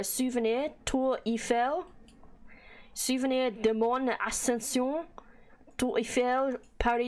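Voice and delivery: lightly put-on French accent. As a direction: try out French on the souvenir names. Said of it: "Do you like my French accent?".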